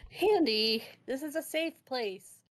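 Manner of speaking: acted reprimand, loud on the name then easing; mock scolding. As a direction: chide a cheeky friend, leaning on the name. Character scolds a heckling companion.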